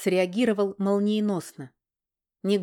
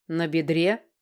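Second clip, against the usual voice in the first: surprised question; slower than usual. Acted. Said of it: "удивился король".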